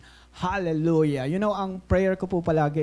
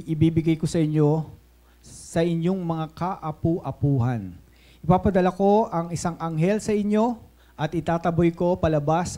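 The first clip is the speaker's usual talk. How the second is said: measured, projected Bible reading; scripture reading. Acted. Preacher reading Exodus aloud to the church, measured proclamation. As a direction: read the verses out to a congregation, pausing between phrases.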